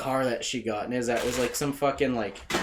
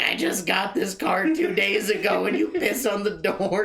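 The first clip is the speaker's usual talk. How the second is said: high, upset wail; imitating a crying drunk; mock hysterical complaint; 6 semitones higher than usual. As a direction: whine it like someone losing it. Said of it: "she's just, like, losing it".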